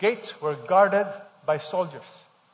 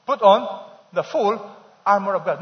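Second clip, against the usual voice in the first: reading together; 3 semitones higher, 6 dB louder than usual. Shown as a demonstration. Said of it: "Read, everybody".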